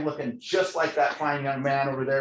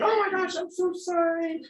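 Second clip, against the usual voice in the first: gushing apology. Retold or imitated. Deputy apologizing to the man she jailed, high gushing voice. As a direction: squeal the apology in a put-on high voice.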